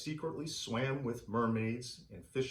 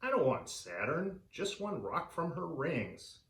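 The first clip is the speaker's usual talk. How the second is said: higher, pleading protest; protesting collector; 5 semitones higher than usual. Acted. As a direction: insist you only want one small rock. Collector answers the alien.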